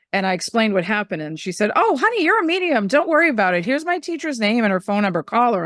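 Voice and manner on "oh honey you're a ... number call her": friend, reassuring. Retold or imitated. Friend reassures her kindly.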